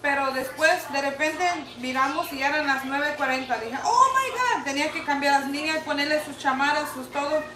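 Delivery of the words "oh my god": retold shock. Panic seeing clouds while driving.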